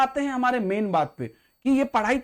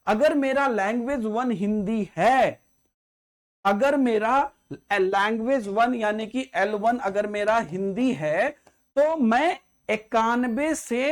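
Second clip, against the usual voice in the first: slowed down, spelling out each condition; slow and deliberate; slower than usual. Shown as a demonstration. Teacher slowing down so students catch the rule, deliberate. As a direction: lay it out step by step so nobody misses it. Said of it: "ध्यान से सुनिएगा इस बात को".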